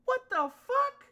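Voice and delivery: high, loud, slow outraged shout; furious outburst. Real, not acted. Ranting at the Packers over the signing, a furious shout. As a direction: explode at the bad signing.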